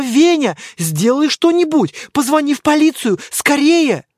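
high, loud panicked pleading; panicked plea. Acted. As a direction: beg your husband to act, panicking. Дама в панике просит мужа. (дама в панике умоляет мужа, громко и высоко)

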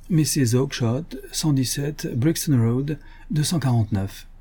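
slow, deliberate reading; measured, item-by-item readout; reading aloud. Acted. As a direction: read an account entry out slowly. Holmes reads the entry aloud.

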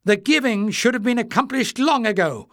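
furious retort. Acted. Clef hurling blame at Warren, furious and high. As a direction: retort in a fury. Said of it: "Clef retorted furiously".

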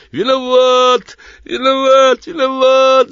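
high, loud, slow howled chant; howling demon chorus. A narrator's reading. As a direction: howl it like a pack of demons. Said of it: "завыло, зарычало, заухало". (воющий хор бесов)

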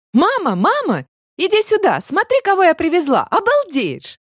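высоко и звонко зовёт маму; кричи маме через двор; радостный зов. A narrator's reading. Майя зовёт мать с участка. (радостно зовёт маму издали)

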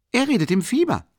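a tipsy friend blurting it out loud; loud blustering exclamation; blustering tipsy call. Acted. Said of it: "rief polternd der beschwipste Rasumichin".

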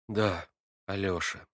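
slow, low and weary; heavy-hearted. A narrator's reading. Natasha answering Alyosha with a heavy heart. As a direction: sigh it out with heavy grief. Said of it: "продолжала она с тяжким чувством".

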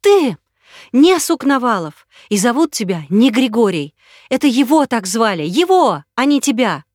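high, loud accusation; woman exposing his false name, furious; accusing. Acted. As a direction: hurl it at him.

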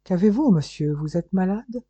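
a touch of urgent concern; concerned exclamation. Acted. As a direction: exclaim it with mild alarm. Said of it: "le retint en s'écriant".

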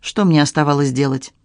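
plain reading voice

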